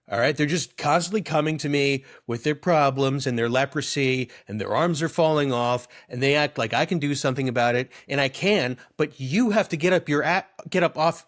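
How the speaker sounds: mock-exasperated bro venting; bro Jesus. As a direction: complain like a lightly voiced bro Messiah. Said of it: "Imagine if Jesus was just a bro".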